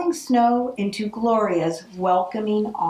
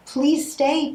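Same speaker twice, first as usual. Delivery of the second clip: pleading; 6 semitones higher than usual. Acted. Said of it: "pleaded Gloria".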